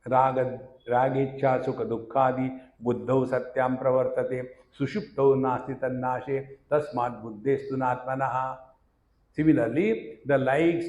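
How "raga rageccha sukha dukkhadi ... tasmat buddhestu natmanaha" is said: verse recitation. Acted.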